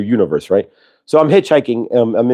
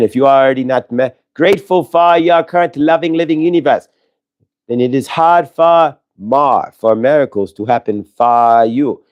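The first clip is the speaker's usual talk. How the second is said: channelling Saint Germain. Acted. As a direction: speak as a spirit giving a blessing, unhurried. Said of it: "thank you, Saint Germain, for the invocation there".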